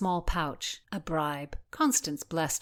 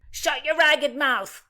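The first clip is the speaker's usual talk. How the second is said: loud, high, slow furious yell; angry yell; 10 semitones higher, 8 dB louder, slower than usual. Acted. A woken servant yells at the chattering pages, loud and slow. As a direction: bark at the noisy pages. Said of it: "yelled a servant".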